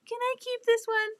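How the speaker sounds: high, playful begging tone; playful pleading. Pretend. Joking message to the sender.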